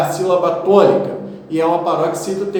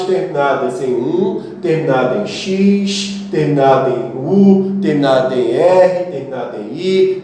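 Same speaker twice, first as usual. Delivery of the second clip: recited rule; 4 semitones lower than usual. Shown as a demonstration.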